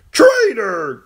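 high, loud clown's shout; mock shout. Jester shouting at the girl, loud and playful. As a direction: yell it like a capering fool.

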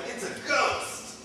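high, drawn-out cry of fright; mock freak-out. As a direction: act out panicked disciples, stretching GHOST. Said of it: "they start freaking out".

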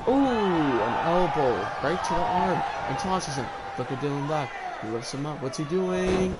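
lively wrestling call, a bit lifted; live play-by-play. Real, not acted. Host calling a wrestling match for stream viewers, live play-by-play. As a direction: call the moves as they land.

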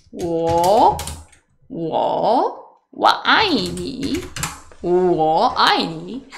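slow, giggling words; laughing through it. Real, not acted. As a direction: say it slowly while laughing shyly. Shy Chinese phrase demo, laughing.

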